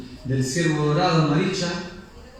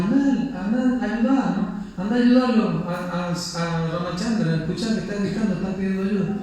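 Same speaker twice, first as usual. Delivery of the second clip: high, anxious urging, pushing him to go; a worried wife begging for help, voice up high; urgent pleading; 5 semitones higher than usual. Acted. Sita urges Lakshman to rush to Rama's aid, high and anxious.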